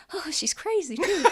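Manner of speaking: high-pitched jeering soldier; voice in the distance. Acted. Game master as distant soldier hearing the laughter, jeering from afar. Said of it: "you hear in the distance".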